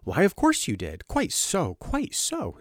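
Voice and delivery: high, hurried, humoring tone; hurried amiability. A narrator's reading. Doctor humoring Turnbull, hurried and falsely amiable. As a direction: soothe him quickly like a madman. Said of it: "with hurried amiability".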